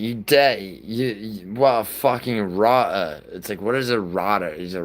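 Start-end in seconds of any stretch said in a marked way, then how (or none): 0.0-3.2 put-on stammered, lightly higher British-accent parody; mock British accent. Streamer mocking how Brits can say anything, light mock British accent. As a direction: stumble into a hammed-up British insult. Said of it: "British twang".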